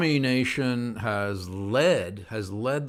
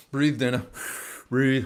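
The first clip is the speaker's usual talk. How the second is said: self-soothing reminder to breathe; coaching yourself to calm down; calming myself down; 4 semitones higher than usual. Real, not acted. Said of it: "Oh, I'm getting worked up".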